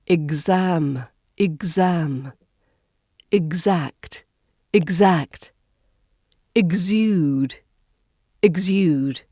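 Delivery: "exam", "exact", "exude" with a buzzed g-z; each word alone, "exact" with voiced gz. Shown as a demonstration. Teacher models words for learners, voiced gz in "exam", "exact", "exude". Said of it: "Now the gz sound".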